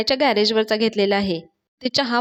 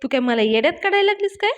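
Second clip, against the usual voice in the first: retold scolding; 3 semitones higher than usual. Boyfriend accuses Payal of fooling him, retold scolding. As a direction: rattle off an indignant question. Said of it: "तिच्यावर ओरडायला लागतं आणि म्हणतं".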